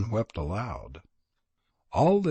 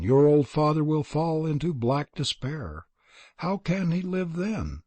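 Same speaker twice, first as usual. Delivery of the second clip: higher, mournful wail over her son; lamenting mother; 5 semitones higher than usual. Acted. Old mother laments over her son, higher and mournful. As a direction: grieve aloud, calling his name. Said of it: "started to lament over the youth".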